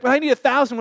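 excited man insisting he needs a thousand barrels; insistent excitement. Retold or imitated. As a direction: insist on it with glee. Man insists on huge order.

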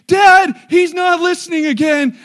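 high, drawn-out shout to Dad; tattling child. Retold or imitated. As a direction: imitate a kid loudly telling on a brother. Third sibling tattles to Dad.

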